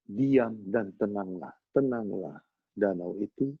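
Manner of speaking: slow, measured command; Jesus. Retold or imitated. Calming the lake from the boat, slow steady command. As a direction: still the storm slowly, without raising the voice. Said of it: "Yesus berkata".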